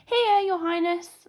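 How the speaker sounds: slow, formal guard. A narrator's reading. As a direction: announce it slowly like a guard. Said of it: "replied the guard".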